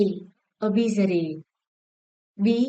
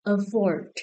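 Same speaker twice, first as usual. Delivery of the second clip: "Afford" with the final syllable stressed; stress on second syllable. Shown as a demonstration. Teacher checking stress answers with class, second-syllable stress on "Afford". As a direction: lean on the "ford" of "Afford". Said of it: "Also the second syllable".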